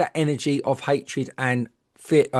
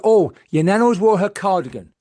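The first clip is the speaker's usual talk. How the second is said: lightly put-on gushing psychic, a bit louder; mock medium; 4 semitones higher, 6 dB louder than usual. Mocking a psychic's reading at the funeral, light put-on voice. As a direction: poke fun at a gushy reading. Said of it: "And she said".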